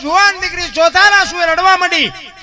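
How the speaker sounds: put-on high, loud recital of the girl's plea; storyteller's declamation. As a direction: cry the plea out over the crowd.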